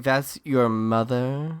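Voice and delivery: slow, drawn-out question; mock disdain. Parents sizing up his mom, slow mock disdain. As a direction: lightly voice a disapproving parent, stretching the words.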